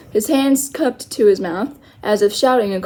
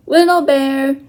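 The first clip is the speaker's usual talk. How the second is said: shouted; 3 semitones higher, 3 dB louder, slower than usual. Acted. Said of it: "he shouted".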